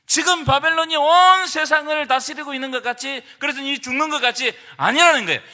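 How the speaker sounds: loud, driving sermon delivery; full-force preaching. Acted. Pastor driving home God's answer to the congregation, loud preaching.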